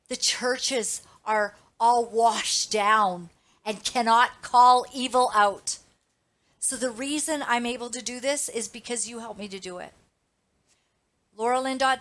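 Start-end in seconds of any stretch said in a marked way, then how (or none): 0.1-5.8 slow, building much louder; indignant. Real, not acted. Condemning churches to her viewers, rising anger. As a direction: hammer home the contempt.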